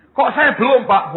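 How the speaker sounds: high, loud mock objection; questioning congregant. Congregant questions the pastor, high mock-puzzled voice. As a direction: pipe up like a puzzled member.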